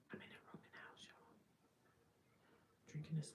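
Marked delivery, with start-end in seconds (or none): 0.1-1.4 much softer whispered repeat; hushed repeat. Real, not acted. Repeating it to viewers, whispered so roommates won't hear.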